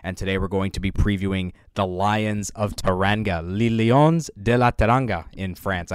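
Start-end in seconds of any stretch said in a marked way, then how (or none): 3.5-5.3 Spanish accent. Shown as a demonstration. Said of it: "I said that sort of in a Spanish accent".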